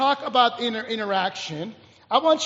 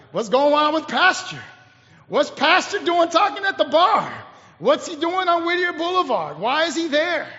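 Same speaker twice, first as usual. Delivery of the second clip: lightly voiced nosy congregation, higher pitch; suspicious neighbors; 4 semitones higher, 3 dB louder than usual. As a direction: question it like a scandalized churchgoer. Congregation gossiping about seeing their pastor.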